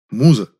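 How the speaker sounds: firmly calling Muza by name; slight pressure. Acted. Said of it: "чуть нажал голосом я".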